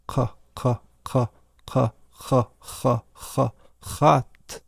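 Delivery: "ka, ka" loosened into a throaty rasp; softened low C. Shown as a demonstration. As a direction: let "cat" start with a throaty hiss. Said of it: "it might sound like this".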